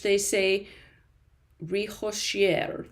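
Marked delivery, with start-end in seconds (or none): 1.6-2.9 slow, amateur French pronunciation; badly approximated French accent; terrible French accent. Shown as a demonstration. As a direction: attempt it slowly in clumsy French. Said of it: "probably a terrible French accent".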